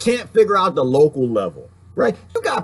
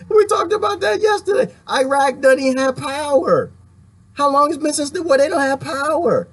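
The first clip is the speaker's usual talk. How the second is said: heated rant; 9 semitones higher than usual. Real, not acted. Venting to viewers about Iraq having no power, heated. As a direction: blast it out in disbelief.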